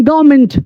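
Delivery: "गवर्नमेंट" as GAAV-ment, no R; silent R. Shown as a demonstration. English teacher tells learners how to read it, silent R. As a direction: say "गवर्नमेंट" short, without the R. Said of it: "इसको पढ़ेंगे".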